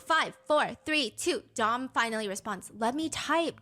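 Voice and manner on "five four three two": higher, louder countdown; mock countdown. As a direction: tick it down like a threat. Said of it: "She loves her countdowns".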